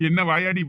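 a short mocking chuckle at her; teasing chuckle before the jab; teasing laugh. Brother teasing his sister's friend.

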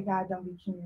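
whining. Retold or imitated. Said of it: "we start whining".

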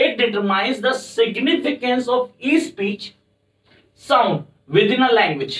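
slow, high definition read; slow dictation. Shown as a demonstration. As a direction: spell it out slowly for notes. Teacher dictates phonology definition. (धीरे धीरे लिखवाना)

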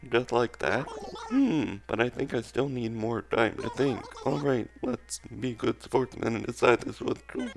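put-on robot villager voice. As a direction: hold the robot voice. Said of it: "I don't know if I can keep this voice up".

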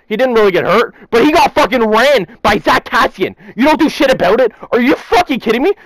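livid rant. Real, not acted. Fan ranting at Jeff Petrie for not defending the goalie, livid. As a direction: vent it like a betrayed fan losing patience. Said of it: "I'm absolutely fucking livid".

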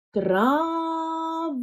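ТРАВА drawn out on long, high, held vowels; slow syllable-by-syllable. Shown as a demonstration. Teacher helps first-graders count syllables in трава, very slow. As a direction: stretch both syllables of ТРАВА slowly and evenly. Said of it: "Вимовляємо повільно".

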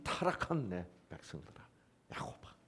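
hushed, breathy whisper to the fallen people; soft whispered lament; whispered plea. Acted. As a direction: whisper it like a grieving call. Dramatic address to sinful people.

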